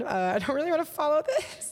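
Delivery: mock disdainful aside. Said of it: "dog food brand".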